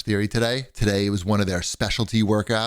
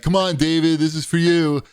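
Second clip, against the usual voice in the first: coach on loudspeaker; 5 semitones higher than usual. Retold or imitated. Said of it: "she said on the loudspeaker".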